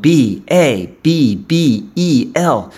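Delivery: slow, letter-by-letter spelling; deliberate spelling for listeners to note down; spelled out. Real, not acted. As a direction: spell it out slowly, each letter on its own. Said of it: "It's spelled".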